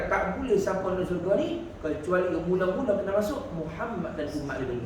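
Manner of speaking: low, hushed and grave; solemn divine voice. Retold or imitated. Preacher voices God's decree, hushed and grave. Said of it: "Tuhan kata".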